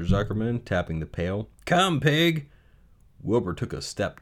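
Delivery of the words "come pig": high-pitched animal call; lilting farmer's pig call; coaxing farmer. Acted. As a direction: call the pig over invitingly.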